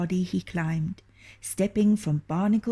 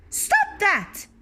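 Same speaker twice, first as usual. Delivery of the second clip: much higher, piping little voice; tiny hero's cry; 4 dB louder than usual. Acted. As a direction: squeak it out like a tiny boy. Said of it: "cried Timimoto".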